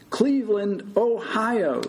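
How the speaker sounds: high shouted answer. A narrator's reading. Patient answers where he is, shouting. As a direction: holler back a quiz answer. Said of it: "Mister Stoltz shouted".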